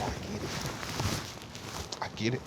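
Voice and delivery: near-silent heartfelt words to mother; hushed. Real, not acted. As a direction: say it to her as if she could hear. Wishing to tell dying mother.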